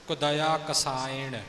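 ਕਸਾਇਣ said without any ਐੜਾ vowel sound; correct pronunciation. Shown as a demonstration. Teacher showing the students the correct reading of ਕਸਾਇਣ. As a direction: say ਕਸਾਇਣ cleanly, no ਐ in the middle. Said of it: "ਖਿਆਲ ਰੱਖਣਾ ਕਿ ਵਿੱਚ ਐੜੇ ਦੀ ਆਵਾਜ਼ ਨਾ ਆਵੇ".

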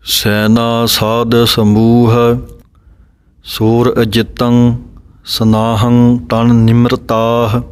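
unhurried measured chant-like reading; slow recitation. Shown as a demonstration. Teacher reciting the final line slowly for students. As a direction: say ਸੈਨਾ ਸਾਧ ਸਮੂਹ slowly and evenly. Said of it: "ਸੋ ਇਸ ਤਰ੍ਹਾਂ ਧਿਆਨ ਰੱਖਣਾ ਹੈ".

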